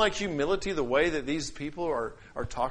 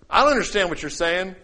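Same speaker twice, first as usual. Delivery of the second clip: loud, dismissive non-understanding; proud; 3 semitones higher, 7 dB louder than usual. Shown as a demonstration. Preacher demonstrating pride toward another speaker, proud and dismissive. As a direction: throw it back at them with a jump in volume. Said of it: "That's pride".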